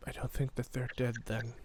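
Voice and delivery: very soft, low voice; frightened kid. Acted. Scared kid answering the adults, very quiet. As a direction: say it small and hushed.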